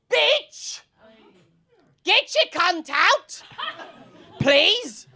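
high-pitched yelled catcall, punched word by word; mock heckling. Man leans out of his car at a passer-by, mock heckling. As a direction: yell it out of a car window.

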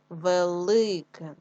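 very slow велике, loud long и in ли; syllable-by-syllable велике, punched on ли; stress on И. Shown as a demonstration. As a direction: stretch the middle of велике. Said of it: "наголос на и".

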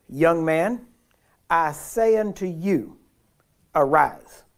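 loud, slow command with arise punched hardest; preacher voicing Jesus calling the dead man up. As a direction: raise the dead with authority.

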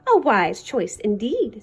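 low, slow, pleased verdict; smiling approval. A narrator's reading. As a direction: approve with a smile in the voice.

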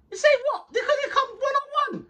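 laughing hype; laughing disbelief. Real, not acted. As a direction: laugh while scoffing. Laughing, hyping friend.

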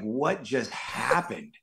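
slow, dazed disbelief after a long shoot; stunned disbelief. Retold or imitated. Actor retelling the ride home, slow stunned disbelief. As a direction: drag it out, still in shock. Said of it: "And I was just like".

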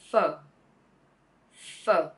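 pho modelled slowly, low then rising; drawn-out pho with a dipping tone; Vietnamese pho. Shown as a demonstration. Tutor repeats pho for learners, slow and careful. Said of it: "This is pronounced".

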